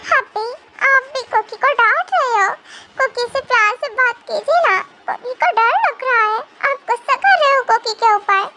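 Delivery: put-on a little girl asking not to be scolded; childish pleading. (बच्चे जैसी डरी आवाज़)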